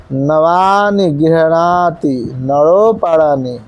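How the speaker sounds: each word of the line said slowly and clearly; careful slow recitation. Shown as a demonstration. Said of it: "तो इसी प्रकार से". (धीमा, स्पष्ट श्लोक पाठ)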